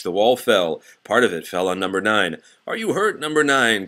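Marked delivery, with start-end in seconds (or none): 2.7-3.9 calling out. Acted. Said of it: "called Old Jeff from underneath".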